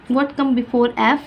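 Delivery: What come before F said very slowly; slow teacher question. Shown as a demonstration. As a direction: draw out the question for a child. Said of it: "उसे read करना है". (बच्चे से धीरे-धीरे पूछें)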